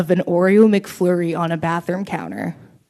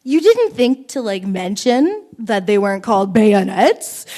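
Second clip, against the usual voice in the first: mock indignant; 2 semitones higher, 5 dB louder than usual. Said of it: "And I was like".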